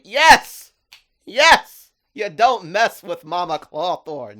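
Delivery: very high, very loud cheering "Yes!". Retold or imitated. Fan cheering Mama Clawthorne on, screaming yes. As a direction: cheer like your team just scored. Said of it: "I'm sitting here like".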